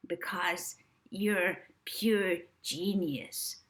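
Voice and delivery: very slow breathy whisper; hypnotised agent praising, slow whisper; dazed whisper. Acted. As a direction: murmur it entranced. Dazed Rixie adoring.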